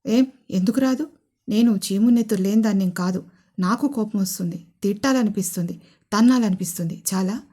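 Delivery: loud retort. Acted. Wife answering husband's teasing, loudly indignant. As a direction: snap back hotly. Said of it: "అని గట్టిగా అంది స్వప్నిక".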